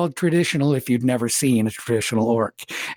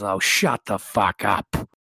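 dismissive brush-off; 7 semitones lower, slower than usual. Acted. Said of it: "Grenick looks at the monster and goes".

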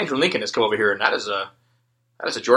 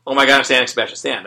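mock excited fan; 6 dB louder, faster than usual. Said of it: "at first it's like".

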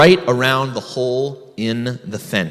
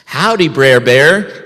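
cheerful call; slower than usual. Acted. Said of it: "he called cheerfully".

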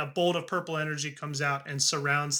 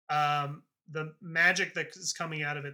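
ordinary delivery

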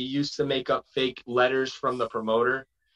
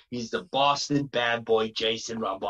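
Jason Rumble; 2 semitones lower than usual. Acted. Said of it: "so he talks like this".

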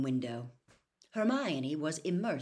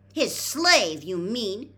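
put-on much higher and louder indignant girl; rising shrill retort; 5 semitones higher, 11 dB louder, much slower than usual. A narrator's reading. Hermione retorting to Percy, voice rising high. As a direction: let the voice climb in outrage. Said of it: "her voice rising shrilly".

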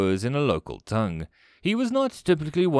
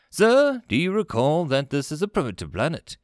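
first officer; 5 semitones higher, 4 dB louder than usual. Acted. First officer reminds commander.

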